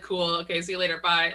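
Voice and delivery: imitating a breezy, undramatic parting; offhand retold sign-off; casual goodbye. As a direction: toss it off, no hard feelings. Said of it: "they don't have a dramatic confrontation".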